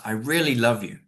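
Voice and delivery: "really" carries the emphasis, falling after; emphatic "really"; stress on really love. Shown as a demonstration. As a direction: lean on "really" to insist on the love. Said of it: "you know, it's like".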